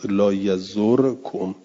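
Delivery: لا یزرکم drawn out slowly with a plain single r; slow jussive لا یزرکم; jussive form. Shown as a demonstration. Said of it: "جزم".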